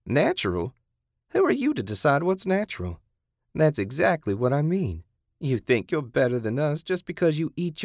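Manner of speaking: high-pitched, scornful captor; indignant captor. Acted. Kathy rebuking captive over manners, indignant. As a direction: challenge the captive's notion of decency.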